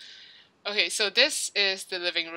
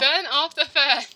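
insistent demand; 7 semitones higher, 4 dB louder than usual. Real, not acted. Repeated demand in argument.

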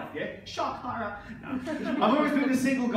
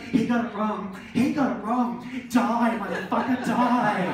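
louder, hammed-up gloating lady; mock gloating; 3 dB louder than usual. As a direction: jeer at the guide with mock spite. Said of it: "overhear her go".

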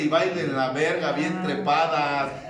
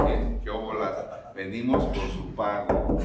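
mock debt collector; 6 semitones lower than usual. Life sends the collector to the drunk, low menacing voice. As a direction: lower it like a grim debt collector.

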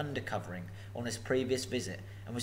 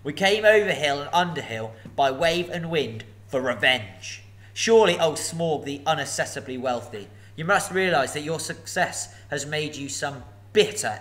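a touch of hobbit bravado, louder; forced bravado; 3 semitones higher, 6 dB louder than usual. Acted. Bilbo bluffing to the dragon, forced brave voice. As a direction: keep your end up against the dragon. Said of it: "in an effort to remain loyal to his friends and to keep his end up".

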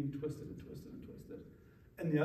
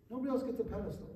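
"Nobody else gets a pedestal" rushed out and softer; quick softer repeat; 5 semitones higher, 5 dB quieter, faster than usual. Shown as a demonstration. Line repeated.

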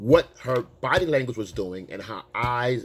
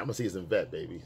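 chilled; 5 semitones lower, 8 dB quieter than usual. Retold or imitated. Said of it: "because I'm chilling".

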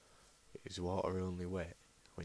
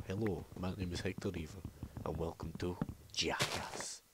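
advert intro. Retold or imitated. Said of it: "I just go".

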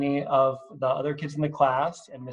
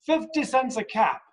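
high peddler's street call; calling out wares; 6 semitones higher than usual. Acted. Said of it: "he called".

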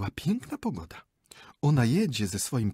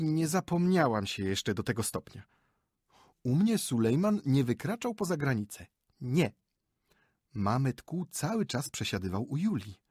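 higher, gushing chatter; boastful lady; 4 semitones higher than usual. Acted. Wife boasts to husband about her Tatar guide, higher and chatty. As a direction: show off how you ruled him.

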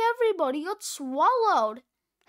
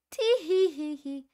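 giggling; 3 semitones higher than usual. Acted. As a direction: giggle with mischief. Giggling after splat.

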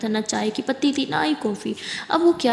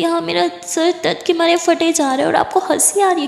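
annoyed; 6 semitones higher, 5 dB louder than usual. Acted. Annoyed sister in pain.

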